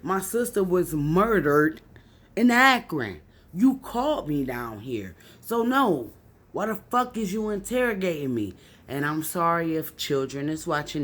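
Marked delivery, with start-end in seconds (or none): 0.0-8.5 retold angry outburst. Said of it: "I literally was like".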